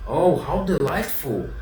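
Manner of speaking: high, slow cry of delight; a puppet squealing with joy; joyful shout. A narrator's reading. Pinocchio cries out to the fairy in delight. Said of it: "shouted Pinocchio, jumping for joy".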